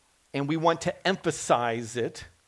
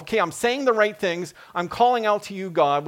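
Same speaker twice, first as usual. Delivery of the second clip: voicing Jonah; 4 semitones higher, 4 dB louder than usual. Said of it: "Jonah is thinking to himself".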